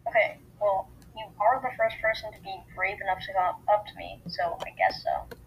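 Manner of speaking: offhand. A narrator's reading. New girl accepts a sleepover invitation, offhandedly. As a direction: shrug the answer off softly. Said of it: "she said offhandedly".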